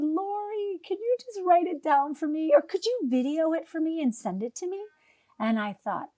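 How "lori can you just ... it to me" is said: higher, lightly voiced pleading ask; a hint of a needy client asking a favour; imitating client. Client asking her coach for videos: lightly pleading. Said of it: "And she said".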